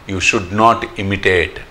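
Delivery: very slow, weighty teaching line; slow emphatic. Shown as a demonstration. Teacher warning devotees against imitation, slow. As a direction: spell out each word slowly. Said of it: "repeated lesson line".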